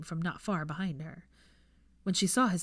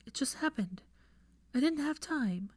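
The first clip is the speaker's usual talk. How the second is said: defensive; 8 semitones higher than usual. Acted. Defensive pleading.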